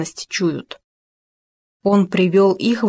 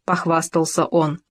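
plain reading voice

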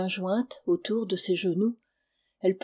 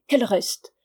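raised, fed-up concession; exasperated; 3 semitones higher, 4 dB louder than usual. A narrator's reading. Husband lets the wife stay, exasperated. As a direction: concede it crossly, voice up. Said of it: "s'écria Stepan exaspéré".

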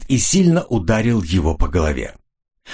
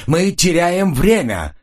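much higher, slow and hammered; furious yell; 10 semitones higher, slower than usual. A narrator's reading. Jan yells furiously at his partners. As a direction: roar it in rage. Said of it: "яростно заорал он".

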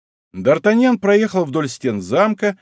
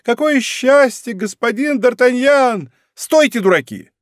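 put-on high, slow, delighted old servant voice; overjoyed, drawn out and high; fat servant's joyful cry; 10 semitones higher, 3 dB louder than usual. A narrator's reading. Fat old servant greets the musketeer, high and overjoyed. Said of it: "вскричал толстяк".

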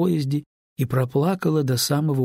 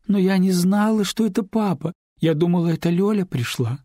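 put-on higher girl's voice, rising as she pleads; young neighbour pleading with Lyuba, higher voice; tearful girl pleading; 6 semitones higher than usual. A narrator's reading. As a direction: beg forgiveness, voice climbing. Larisa excuses herself.

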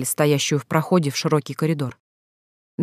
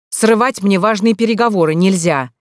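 loud, raised, lecturing voice; deliberately loud; 4 semitones higher, 4 dB louder than usual. Acted. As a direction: say it loud so she hears through the door. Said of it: "Он говорил нарочито громко". (нарочито громко, на публику)

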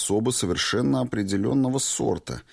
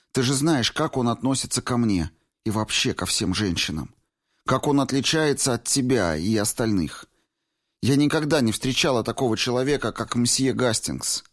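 put-on higher young woman's voice, lightly teasing reproach; 6 semitones higher than usual. A narrator's reading. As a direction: Valentina scolding her old friend Clifford, higher and reproachful. Valentina praising Hastings.

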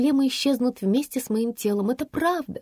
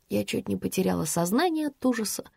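usual speaking voice

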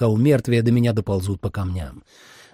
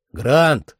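moderately raised, higher falling call; calling a name; 4 semitones higher, 4 dB louder than usual. Acted. Narrator calls to Grant through the opening, raised call. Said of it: "позвал я".

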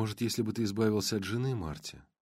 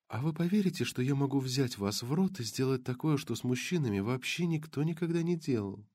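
lightly voiced blonde; 3 semitones higher, 4 dB quieter than usual. Blonde voiced high, softer.

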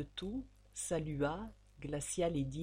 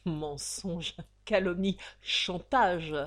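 louder, biting denial; angry denial; 4 dB louder, slower than usual. Acted. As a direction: throw the words back in anger. Count denies furiously.

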